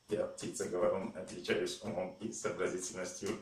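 chipper text to speech voice; robot voice. Retold or imitated. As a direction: electronic parrot voice, lightly done. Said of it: "голос робота". (электронный голос робота)

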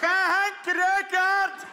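slow, high and loud, stiff; tense. Retold or imitated. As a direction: blurt your name stiffly. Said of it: "zijn eigen naam zo super verkrampt".

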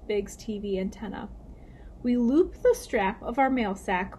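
lively, clearly paced storybook reading; story read-aloud. A narrator's reading. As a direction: read it to children, lifting the characters' lines. Reads story to children.

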